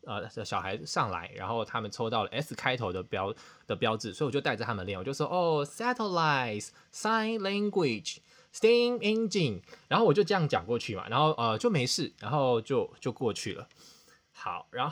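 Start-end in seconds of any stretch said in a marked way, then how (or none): 5.3-9.6 slow, drawn-out classroom drill with engine said as "injing"; mispronounced English. Retold or imitated. Teacher drilling kids on S words, slow and mispronounced. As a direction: drill the words slowly, saying engine as "in-jing". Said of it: "我发音发不标准".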